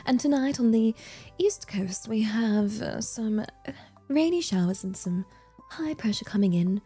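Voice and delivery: measured mock weather forecast in British accent; hesitant, put-on British weather-host voice; British weather girl. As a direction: read the forecast like a British TV presenter. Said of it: "am I a weather girl?".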